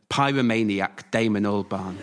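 chuckling through the words; amused, laugh breaking in. Real, not acted. Narrator cracks up at own joke.

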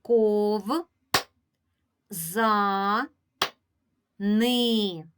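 Ков, за, ни each held, with long pauses between; syllable-by-syllable teacher demo; split into syllables. Shown as a demonstration. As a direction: break it into Ков - за - ни, one beat each. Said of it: "Поділимо це слово на склади".

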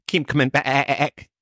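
slow line ending in a stuttered bleat; sheep bleat. Retold or imitated. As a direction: bleat the last word like a sheep, teasing. Sponsor mocks the sheep remark.

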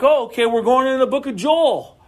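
mock eager; eager guess. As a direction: brightly guess the next book. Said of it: "Then I'm like".

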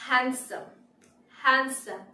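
"হ্যান্ডসাম" as HAN-sum, no d; silent d. Shown as a demonstration. Teacher presenting the next word, "হ্যান্ডসাম" as HAN-sum. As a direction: say "হ্যান্ডসাম" with the d left out. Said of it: "ডি হচ্ছে silent".

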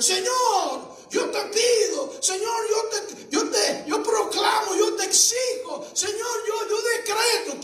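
high, shouted demanding prayer; mock arrogant prayer. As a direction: mimic a proud man ordering God.

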